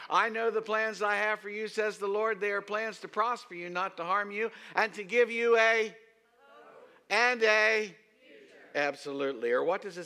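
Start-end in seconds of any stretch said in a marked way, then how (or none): 0.1-8.0 high, loud proclaimed verse; loud call to the congregation; preaching at full force. Real, not acted. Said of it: "Say hope".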